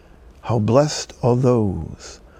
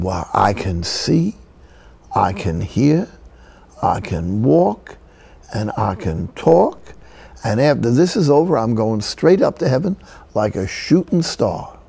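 put-on old-fashioned Southern Afro-American accent. Old woman counting her gifts to the priest, Southern African-American accent. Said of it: "old-fashioned Southern Afro-American accent".

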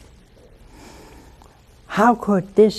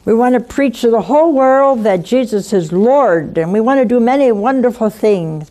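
rising preaching; 3 semitones higher, 5 dB louder than usual. Real, not acted. Preaching climax.

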